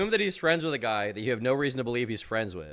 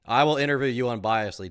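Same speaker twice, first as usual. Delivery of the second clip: mock parroting; 5 dB louder than usual. Parroting the rival's offer back.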